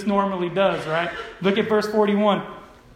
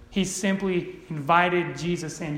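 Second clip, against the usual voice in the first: understated, dry sarcasm; sarcastic. Shown as a demonstration. Preacher mocks Simon's poor hospitality, understated sarcasm. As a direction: say it with air quotes in the voice. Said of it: "that's me being sarcastic".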